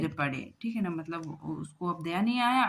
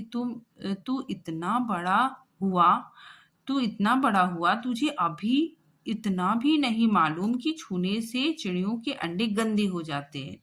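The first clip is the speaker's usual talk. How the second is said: scolding mother; 2 semitones higher, 3 dB louder than usual. Acted. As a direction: drag out the scolding word by word. Mother scolds son over eggs. (माँ केशव को धीरे-धीरे ज़ोर से डाँटती है)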